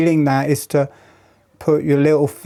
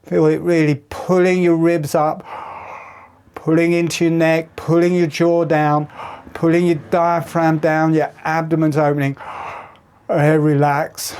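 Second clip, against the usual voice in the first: coaching them through a big yawn; guided breathing cue; 2 semitones higher than usual. Shown as a demonstration. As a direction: instructor talking a class through a stretch. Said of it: "So everybody".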